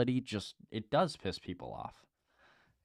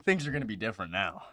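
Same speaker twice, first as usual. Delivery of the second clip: sarcastic approval; 7 semitones higher, 4 dB louder than usual. Retold or imitated. Podcaster mocking the health department pick, sarcastic. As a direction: drag it out like it all makes sense now. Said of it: "you're like".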